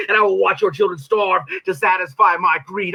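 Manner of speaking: spoken-word villain boast; performed devil line. Acted. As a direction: hurl the threat from the stage. It's like playing a character.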